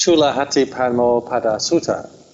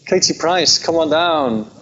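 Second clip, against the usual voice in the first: higher, polite call with no shout; reserved English announcer; 5 semitones higher than usual. Retold or imitated. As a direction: imitate a polite English game-show call. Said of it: "when they did it in England".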